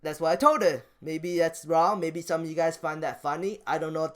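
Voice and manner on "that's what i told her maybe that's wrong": normal talking voice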